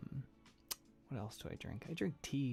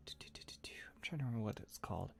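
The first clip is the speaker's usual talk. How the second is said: whispering; 6 dB quieter than usual. Real, not acted. Whispers while trying to remember.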